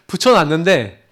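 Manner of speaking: laughing through a mouthguard; slurred, laughing through the mouthpiece. Real, not acted. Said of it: "발음이 지금 이래요". (마우스피스를 물고 웃으며 어눌하게)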